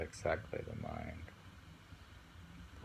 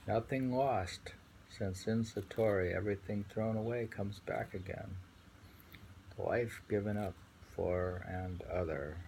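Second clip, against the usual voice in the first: poem reading. Acted. Rereading the poem.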